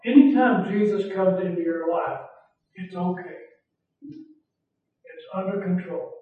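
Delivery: hushed comforting promise; gentle reassurance. Shown as a demonstration. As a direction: ease a frightened listener. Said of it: "I'm gonna say it now".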